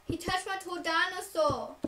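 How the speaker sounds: a hint of kiddie protest; little kid. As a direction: tattle like a small child. Voicing kindergarten self to teacher.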